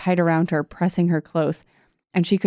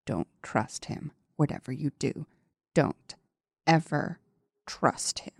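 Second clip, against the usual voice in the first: barely audible whisper; 3 semitones lower, 8 dB quieter than usual. A narrator's reading. Reading the shadowy voice warning Trish, hushed whisper. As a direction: drop to a menacing breath, spacing the words. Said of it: "the whisper barely audible now".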